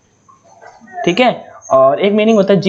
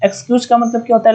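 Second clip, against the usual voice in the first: faster rattled-off repeat of the question; quick repeat; 3 semitones higher, faster than usual. Shown as a demonstration. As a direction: fire the question again quickly. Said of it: "तो excuse का मतलब क्या होता है?". (जल्दी से दोहराया गया सवाल)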